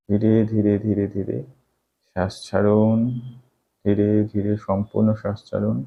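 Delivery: calm, slowed breathing guidance; guided meditation. Acted.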